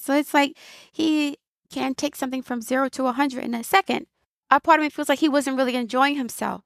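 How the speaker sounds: ordinary talk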